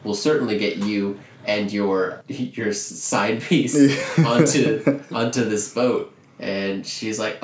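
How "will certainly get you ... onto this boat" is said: louder, hammed-up smarmy fiancé; oily overdone villain confession; mock villain promise. Billy Zane reassures Rose, in hammy villain voice.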